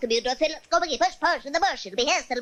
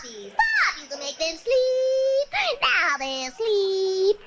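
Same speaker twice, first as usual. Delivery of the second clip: witch spell; 6 semitones higher, much slower than usual. Acted. Witch casting poppy spell.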